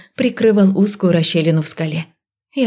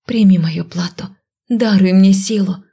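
whispered incantation. A narrator's reading. Spell incantation.

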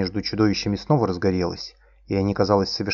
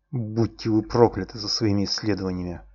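through gritted teeth. Acted. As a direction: spit the curse through clenched teeth. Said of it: "процедил я сквозь зубы".

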